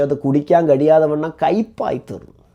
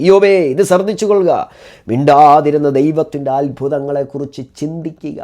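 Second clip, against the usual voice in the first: commanding voice of God; 6 dB louder than usual. Acted. God calling on Job to listen, loud and urgent. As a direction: boom it out as a divine summons.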